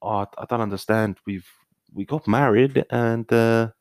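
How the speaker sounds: put-on Australian reality-show complaint; mock Australian lament; Australian accent. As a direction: play an aggrieved spouse in an Australian accent. Acting Australian reality-show spouse.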